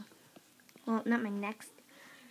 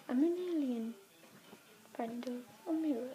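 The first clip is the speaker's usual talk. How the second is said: inside a rubber mask. Real, not acted. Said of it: "Seems I can't breathe in this mask".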